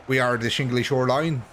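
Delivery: badly faked, uncertain Irish accent; botched Irish accent. Streamer playing a good old Irish band, botched Irish accent. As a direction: attempt an Irish accent and miss. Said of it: "I don't know what accent that was".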